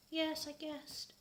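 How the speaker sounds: lying. Acted. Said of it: "I lied".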